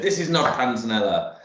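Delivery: light mock-Italian accent; badly faked Italian accent; terrible Italian accent. Retelling an Italian community member's telling-off, in a hammy Italian accent. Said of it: "that's a terrible Italian accent".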